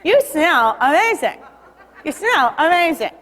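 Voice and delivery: slow, talking with the lips tucked in; drawn-out words with lips rolled inward; lips pulled in. Shown as a demonstration. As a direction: say it slowly through pulled-in lips. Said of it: "Pull your lips in and say".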